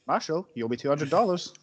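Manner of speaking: a faint, bad German accent on the sheriff's line; barely-there German accent, imitating the character. Quoting the sheriff to the marshal in a bad German accent. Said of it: "That's the worst German accent ever".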